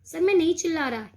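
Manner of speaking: pupil protesting loudly he isn't shouting. Acted. Pupil tells teacher he isn't shouting, loud protest. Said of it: "ये स्वामीनाथन बोल रहा है".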